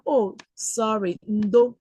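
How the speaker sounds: a gentle, sympathetic "ndo"; soothing apology. Pretend. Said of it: "you tell her".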